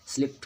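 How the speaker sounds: स्लिप्ड ending in a voiceless T; correct past ending. Shown as a demonstration. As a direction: say स्लिप्ड as "slipt". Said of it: "पढ़ेंगे इसको". (स्लिप्ड के अंत में ट की आवाज़)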